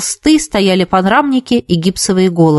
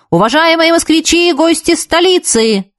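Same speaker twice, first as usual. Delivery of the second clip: yelling; 8 semitones higher than usual. A narrator's reading. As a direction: bellow it like a street hawker. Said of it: "заорал он".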